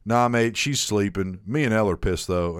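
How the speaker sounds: imitating an Australian mate; lightly done Australian accent. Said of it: "do a better Australian accent".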